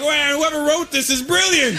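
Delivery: high, slow gush of mock amazement; amazed. First-time viewer awed by the movie, hammed-up amazement. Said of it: "I was like".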